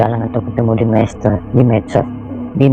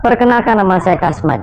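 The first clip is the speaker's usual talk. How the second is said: spirit voice; 8 semitones higher than usual. Acted. Spirit introduces itself.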